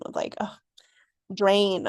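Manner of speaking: ugh and drain breathed out in a whisper; weary whisper. Shown as a demonstration. Describing her tired podcast energy in a drained whisper. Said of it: "this energy of, like, tiresome".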